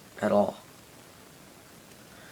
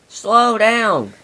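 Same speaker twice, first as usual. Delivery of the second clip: higher, louder plea; crying out; 9 semitones higher, 4 dB louder than usual. A narrator's reading. Clarabelle pleads again with speeding Diesel, high and loud.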